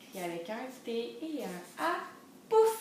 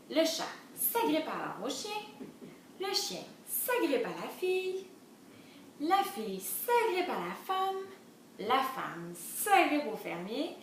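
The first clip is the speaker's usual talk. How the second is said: measured, sing-song storybook reading; lilting story narration; children's storytelling; 4 semitones higher, slower than usual. A narrator's reading. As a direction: read the chain to little ones.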